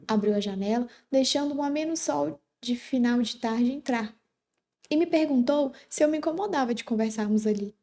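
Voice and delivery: measured read-aloud storytelling; story narration. A narrator's reading. Teacher reads a sweet story excerpt to students, story narration. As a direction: read it out like a literary tale.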